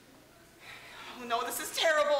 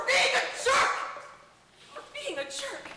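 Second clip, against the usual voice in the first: high squeaky yell; 9 semitones higher than usual. Acted. King's voice jumps high.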